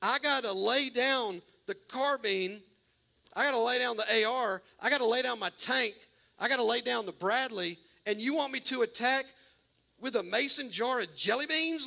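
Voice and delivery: a soldier pleading that this makes no sense; exasperated Gideon. Retold or imitated. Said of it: "He's like".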